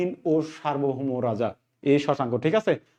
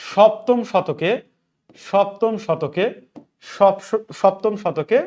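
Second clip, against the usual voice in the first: slow dictation; 2 semitones higher, much slower than usual. Shown as a demonstration. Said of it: "teacher dictating to students".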